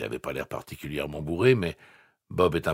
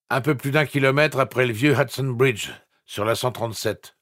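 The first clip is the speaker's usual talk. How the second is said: slurred voice; 8 semitones higher, 9 dB louder than usual. A narrator's reading. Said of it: "Voix pâteuse".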